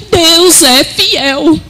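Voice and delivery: "Deus é fiel" high and very slow, every word stretched; emphatic declaration. Retold or imitated. Mother declares faith despite loss.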